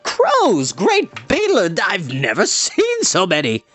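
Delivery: thrilled bard shouting; excited shout. Acted. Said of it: "The bard shouted excitedly".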